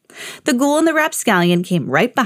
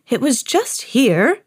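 wizard voice; 3 semitones higher, slower than usual. A narrator's reading. Wizard speaks.

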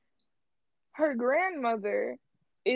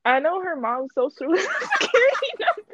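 laughing; 5 semitones higher than usual. Real, not acted. Laughing joke about stalking.

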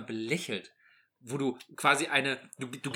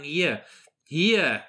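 louder, a bossy mock shout at underdressed men; mock scolding shout; 6 dB louder than usual. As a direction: bark it at someone you shove into the snow. Pushing people into snow, scolding.

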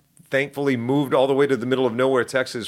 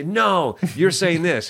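correcting coach; 6 semitones higher, much slower than usual. Retold or imitated. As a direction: stop the pupil and correct him. Coach correcting, voiced higher.

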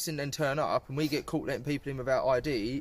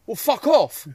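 loud, raised-pitch angry retort; imitated snapping; 7 semitones higher, 8 dB louder, slower than usual. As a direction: act out a doorman losing his temper. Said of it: "he snaps and goes".

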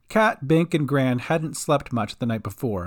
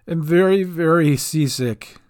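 queasy seasick halfling; 3 dB louder than usual. Acted. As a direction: drag the words out like your stomach is churning.

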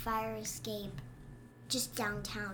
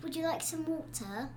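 put-on British accent; 3 semitones higher than usual. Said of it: "first thing I learned how to say in British".

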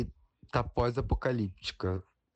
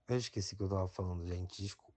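quick embarrassed mumble; apologetic, rushed and fading; trailing off; 5 dB quieter, much faster than usual. Real, not acted. Apologises for forgetting.

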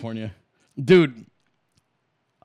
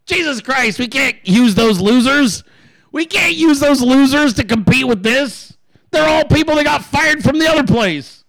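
hammed-up exasperation, pitched higher; exasperated boss; 5 semitones higher than usual. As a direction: play a fed-up boss complaining. Acted boss rejecting hired memers.

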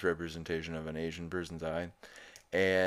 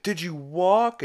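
shocked question; 13 semitones higher, 9 dB louder, slower than usual. Retold or imitated.

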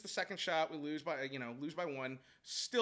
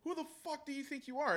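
mock confrontational; 8 semitones higher than usual. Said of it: "he starts getting in their face".

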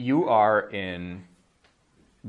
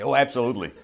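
emphatic yes; 6 dB louder, faster than usual. Shown as a demonstration. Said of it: "absolutely and absolutely not".

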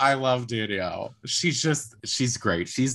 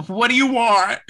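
high, loud exasperated plea; hammed-up, high-pitched demand; mock exasperation; 12 semitones higher, 7 dB louder than usual. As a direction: wail the question in mock despair. Exaggerated echo of exasperated question.

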